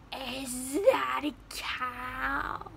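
slow, drawn-out amazed question; awed question. Retold or imitated. Stranger marveling at the cow, slow amazement. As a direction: stretch each word in wonder. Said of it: "he's like".

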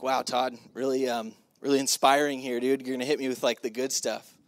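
unimpressed, low-key deadpan; damn with faint, halting praise; sarcastic. Retold or imitated. Audience member mocking the speaker's pep talk, dry sarcasm.

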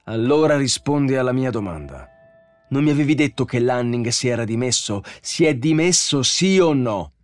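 high, loud interrogation; angry demand. A narrator's reading. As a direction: press for a yes or no, building in fury. Bogart demands an answer.

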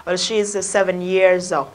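slow English example with linked words; linked English sounds. Shown as a demonstration. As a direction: run "she is" together, unhurried. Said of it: "Nối âm đấy".

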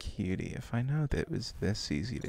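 put-on teasing anime older-sister voice; ara ara voice. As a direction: coo it like a teasing anime onee-san. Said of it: "I had to break the Ara Ara voice".

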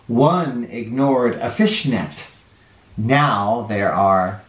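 gentle picture-book read-aloud with dropping countdowns; reading to children. A narrator's reading. Storyteller reading a counting book to children, gentle.

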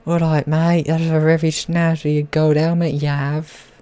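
put-on slightly botched Aussie accent; hammy Australian accent gone wrong; attempted Australian accent. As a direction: put on a rough Australian twang. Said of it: "A bit of Australian, but it turned crap".

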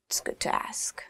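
soft whispered aside; whispered tip. Real, not acted. Teacher whispering advice to travellers, hushed.

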